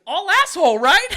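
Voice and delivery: a sudden high, loud yelled quote; mock shout. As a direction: belt it out like a mock insult. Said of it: "He goes".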